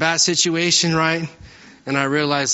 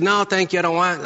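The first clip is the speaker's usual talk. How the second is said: retold upset; 5 semitones higher than usual. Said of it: "I got upset".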